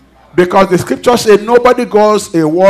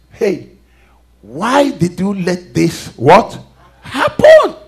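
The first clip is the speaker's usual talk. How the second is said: mock question; much slower than usual. Mock question to God, laughing.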